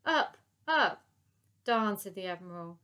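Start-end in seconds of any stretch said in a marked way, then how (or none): 0.0-1.0 very high loud hollers. Acted. Lady Buckshot hollering at the pilot, loud orders. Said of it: "hollered her instructions". 1.6-2.0 louder frustrated curse. Acted. Admiral seeing the trick fail, frustrated curse.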